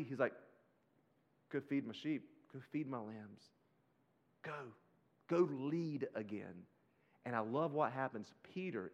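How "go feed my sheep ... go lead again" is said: softer, unhurried voice of forgiveness; gentle commissioning. Retold or imitated. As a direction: send him off quietly and tenderly. Jesus gently restores Peter, retold.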